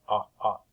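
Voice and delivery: two separate "Ah" vowels; short O sound. Shown as a demonstration. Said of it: "You hear the short O sound".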